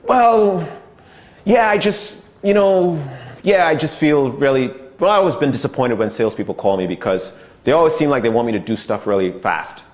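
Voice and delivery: flustered backpedaling voice; defensive caller. Retold or imitated. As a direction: fumble for an excuse. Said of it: "folks will say".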